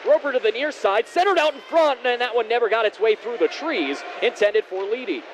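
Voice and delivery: brisk hockey commentary; play-by-play. Real, not acted. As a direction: call the action live. Live play-by-play.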